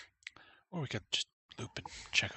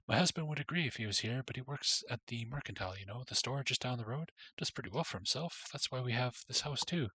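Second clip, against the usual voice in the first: gushing chatty woman. Acted. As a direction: rattle it off like an eager matchmaker. Voices chatty woman Elizabeth.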